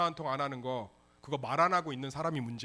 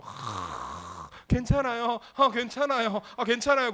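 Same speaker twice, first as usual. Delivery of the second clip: higher, forced "괜찮아요" over and over; mock martyr sigh; 5 semitones higher, 4 dB louder, slower than usual. A tired member pretending the dishes are fine, forced brave reassurance. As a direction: sigh then insist 괜찮아요 like you don't mean it.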